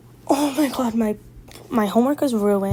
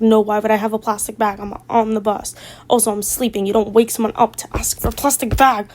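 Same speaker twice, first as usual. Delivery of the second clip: irritated retort; 4 dB louder than usual. Retold or imitated. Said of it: "And I'm like".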